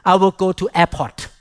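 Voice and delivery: put-on English with a Thai accent. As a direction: say it the way a Thai speaker would. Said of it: "I would say like this".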